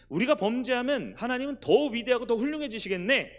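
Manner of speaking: high-pitched sarcastic retort, acted; hammed-up brazen objector; mock defiance. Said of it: "요즘 조금 거친 말로 하면 배짜라".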